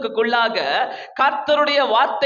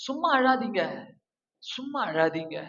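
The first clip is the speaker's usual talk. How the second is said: quiet warning to the congregation; sudden hush; 7 dB quieter than usual. Acted. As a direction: drop to a hush after the shout. Preacher drops voice after shout.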